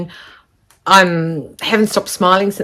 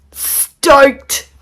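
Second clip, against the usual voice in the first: stoked; 8 semitones higher, 4 dB louder than usual. Real, not acted. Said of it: "that means I am so happy".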